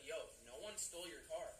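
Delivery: mildly calm retold reassurance. Valet worker reassures the worried car owner, calm. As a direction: play down the alarm, evenly. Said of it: "like, calm".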